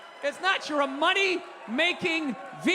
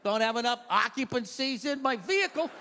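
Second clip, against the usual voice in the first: timid rule-follower; 4 semitones lower than usual. Retold or imitated. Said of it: "They're like".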